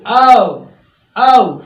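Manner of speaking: ओ said as औ, rounded; British O. Shown as a demonstration. Teacher demonstrating British letter O. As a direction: say औ not ओ. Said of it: "ये होता है औ".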